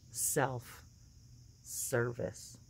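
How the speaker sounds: self-service slow and soft; drawn-out punchline. Shown as a demonstration. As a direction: stretch out self-service quietly.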